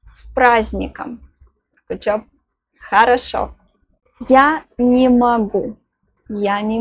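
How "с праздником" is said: С праздником with the д left silent, as "празник". Shown as a demonstration. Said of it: "The letter D is silent here".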